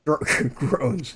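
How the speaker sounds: chuckling through the word; laughing. Real, not acted. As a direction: laugh at the slip. Laughs at own misreading.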